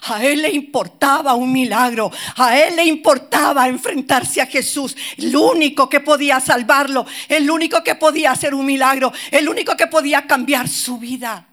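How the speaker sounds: loud, high, impassioned sermon voice; preaching at full force. Acted. Pastor urging the congregation, loud impassioned preaching. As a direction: drive it home to the congregation.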